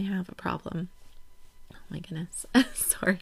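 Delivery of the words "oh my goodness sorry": getting emotional. Real, not acted. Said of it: "And now I'm getting emotional".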